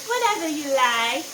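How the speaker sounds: lilting mock film line, rising at the end; obedient movie bride. Host quoting the bride-to-be from the movie, mock obedient lilt. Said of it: "and she said".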